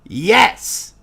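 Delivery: put-on high, loud grumpy old gnome scolding; a crotchety gnome hollering at the adventurers for showing up late; cranky old gnome yelling. Mort answers the players.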